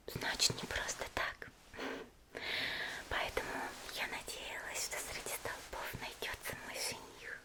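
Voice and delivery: lightly voiced flirty swordswoman, whispered; Mitsuri whisper.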